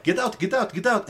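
retold angry ejection; imitating angry yelling. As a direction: hammer it like a fed-up owner. Manager chasing shoplifter out.

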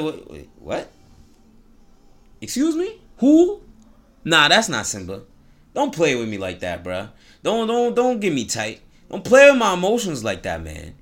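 hammed-up can't-believe-it; disbelieving Rafiki. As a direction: Rafiki refusing to believe the news. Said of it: "he can't believe it".

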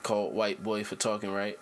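low, controlled on-air register; good podcast voice. Shown as a demonstration. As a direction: stay down in the careful speaking octave. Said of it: "I can rock like this".

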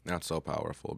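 winded, catching breath between words; out of breath from the stairs. Real, not acted. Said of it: "still out of breath from running up the".

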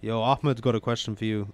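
very British-sounding delivery. Real, not acted. Passing a question to the host, very British accent. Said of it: "I said that in such a British way".

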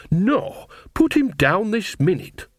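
high-pitched telling-off; scolding. A narrator's reading. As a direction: scold sharply, pitch jumping up. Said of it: "they heard her scolding voice".

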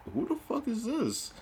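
imitating a suspicious dad, pitched well up; mock-furious phone challenge; angry dad. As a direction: demand it like an outraged father. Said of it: "he was ready to come back".

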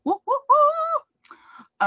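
high, drawn-out woo; excited cheer. Real, not acted. Cheering Joe's beer chug.

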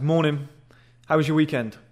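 brief greeting with falling ends; assertive casual greeting. Shown as a demonstration. Man passing the receptionist at work, casually assertive. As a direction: toss it off assertively and keep moving. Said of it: "Kind of like that".

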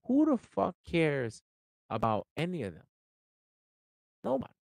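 exasperated shout; emphatic rant. Real, not acted. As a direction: hammer every word of the question. Ranting at people's opinions.

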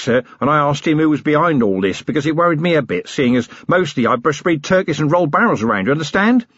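eager, simple-minded prisoner voice; lightly voiced dim henchman, talking up; simple working man. Flutter speaks to Vimes.

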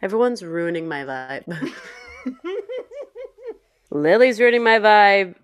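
giggly complaint; laughing. Real, not acted. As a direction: laugh through the whine. Laughing complaint while high.

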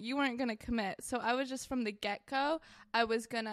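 playful put-on British accent; lightly mock a British accent. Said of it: "started talking in the accent".

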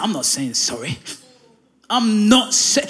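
stubborn refusal. Retold or imitated. Stubborn spouse refusing to apologise.

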